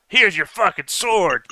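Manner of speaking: shouting. Pretend. Imagined climactic sword throw.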